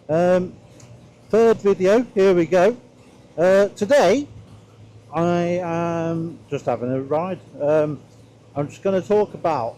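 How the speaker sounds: muffled through a helmet visor; talking from inside a closed helmet; inside a motorcycle helmet. Real, not acted. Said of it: "Let me close this visor".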